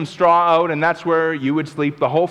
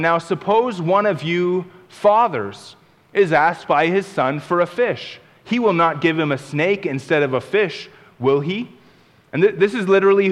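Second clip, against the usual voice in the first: scripture reading. Acted.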